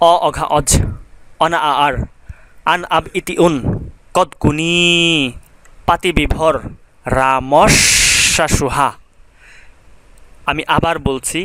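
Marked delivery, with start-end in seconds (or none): 0.1-8.9 slow, rhythmic recital of the prefix list. Shown as a demonstration. Teacher chanting the prefix list slowly for students. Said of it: "আমি প্রথমে আস্তে আস্তে বলবো".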